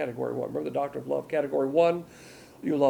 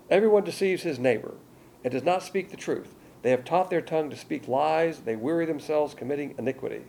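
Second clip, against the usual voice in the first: forceful scripture reading; 3 semitones higher than usual. Acted. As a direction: thunder the verses out. Preacher reads on.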